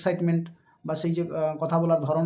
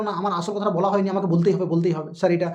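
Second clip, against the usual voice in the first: louder, pushing to keep talking; insistent pleading; 3 dB louder than usual. Retold or imitated. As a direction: insist on finishing your point, sir. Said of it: "ওরকমটা বলতে যাবো না".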